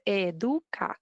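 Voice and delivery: Educa in careful Spanish, eh-DOO-kah; correct pronunciation. Shown as a demonstration. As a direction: teach Educa syllable by syllable. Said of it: "the way to pronounce it is".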